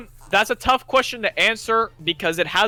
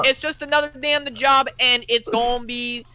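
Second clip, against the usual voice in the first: put-on country accent. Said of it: "can you do a country accent for me".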